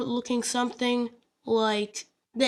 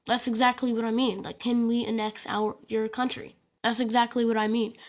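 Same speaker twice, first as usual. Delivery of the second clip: deadpan. Acted. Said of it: "deadpan it".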